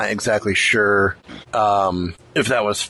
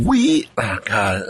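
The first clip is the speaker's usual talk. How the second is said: voice cracking; slower than usual. Real, not acted. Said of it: "as my voice just cracked there".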